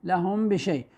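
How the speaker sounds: لهم بشيء with the meem held as a nasal hum; ikhfa shafawi. Shown as a demonstration. Teacher pointing out meem before ba, holding the meem of لهم. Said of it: "ميم بعدها الباء".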